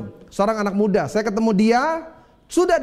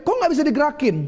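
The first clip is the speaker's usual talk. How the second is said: shocked cry; 6 semitones higher, faster than usual. Retold or imitated. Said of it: "dia kaget".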